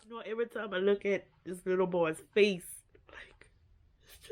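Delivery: a hushed, breathless whisper. Real, not acted. Vlogger picturing the abused boy's face, whispering. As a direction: drop to a whisper as if it hurts to say.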